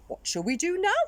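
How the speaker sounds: puzzled skeleton asking; big skeleton voice. Acted. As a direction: play the big skeleton wondering. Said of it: "he said".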